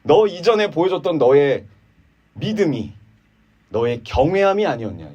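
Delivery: mock his former faith; sarcastic. Eliphaz sneering at Job's faith, sarcastic. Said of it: "비아냥처럼 이야기하고 있는데".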